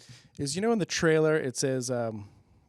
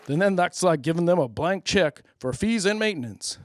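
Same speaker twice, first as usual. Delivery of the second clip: loud ad voice; 3 semitones higher, 7 dB louder than usual. Acted. Loud ad interrupts.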